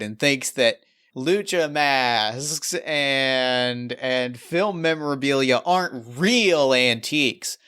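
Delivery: lightly hammed-up confessional, drawing out key words; milk it a little for the viewers; playing it up. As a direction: lean into the rivalry for the camera. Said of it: "leaning in and playing it up".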